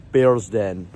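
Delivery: patient, posh Bearsden accent, badly faked; bad Bearsden impersonation. Shown as a demonstration. Politely introducing himself to a newcomer, bad Bearsden accent. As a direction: attempt a measured posh Glasgow introduction. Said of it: "That was a really bad impersonation".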